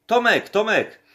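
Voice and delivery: urgent call. Retold or imitated. Calling him as he falls asleep.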